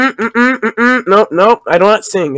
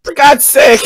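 exasperated shout; 3 semitones higher than usual. Real, not acted.

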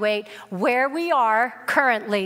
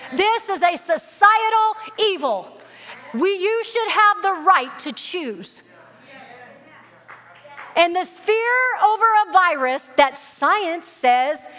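full-force preaching; 2 semitones higher than usual. Acted. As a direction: thunder it out to the congregation.

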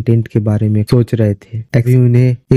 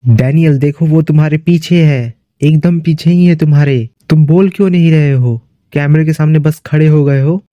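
higher-pitched, urgent pleading; acted alarmed warning; 5 semitones higher than usual. Robin begs silent Daniel to answer, acted alarm. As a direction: plead with mild, rising alarm.

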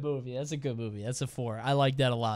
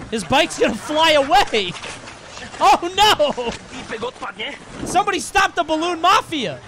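excited alarm; 7 semitones higher than usual. Real, not acted. Watching balloons carry off the bike, mock alarm. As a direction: raise the alarm with playful panic.

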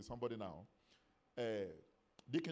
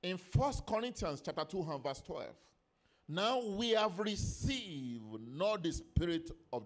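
raised, emphatic preacher delivery; preaching; 5 semitones higher, 6 dB louder, slower than usual. Real, not acted. Preacher reading Corinthians to the church, emphatic preaching. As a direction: proclaim it to the congregation.

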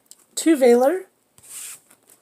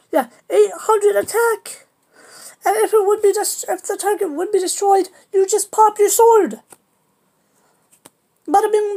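higher, pumped-up card pitch; hyped-up voice; 5 semitones higher than usual. Real, not acted. Explaining his deck to viewers, higher and pumped up. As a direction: sell every card like a hype man. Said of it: "I don't know why I'm talking like this".

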